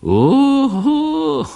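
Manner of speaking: high, loud delighted cry; a sudden loud old man's exclamation; exclaimed. Acted. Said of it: "zvolal doktor Pingicer".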